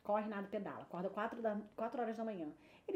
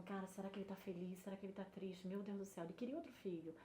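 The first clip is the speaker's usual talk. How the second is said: anxious thoughts; 4 semitones lower, 11 dB quieter than usual. Retold or imitated. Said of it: "Eu fiquei aquela noite toda pensando".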